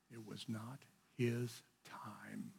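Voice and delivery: a slow breathy whisper, barely voiced; hushed whisper. Real, not acted. Whispering to the class that it was not his time. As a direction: let it sink in, whispered and slow. Solemn reflection on Jesus' fate.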